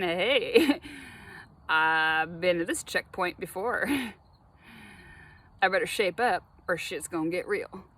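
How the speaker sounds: quoting the inner voice through laughter. Retold or imitated. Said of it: "Deja vu is just a way of saying".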